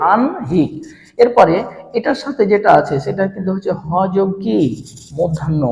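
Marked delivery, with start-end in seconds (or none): 0.1-0.7 আনহিক split clearly into an and hik; n-before-h pronunciation. Shown as a demonstration. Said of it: "কি হবে?".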